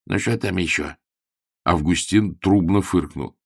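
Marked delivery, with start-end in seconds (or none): 0.1-1.0 a lightly voiced cranky old woman; grumpy landlady. Landlady grumbles back at her tenant, a touch voiced. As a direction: grumble it from downstairs. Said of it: "сварливый голос спросил".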